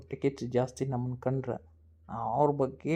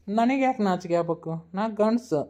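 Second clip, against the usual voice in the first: defiant retort; 5 semitones higher, 3 dB louder than usual. Acted. Acted quarrel, man boasting.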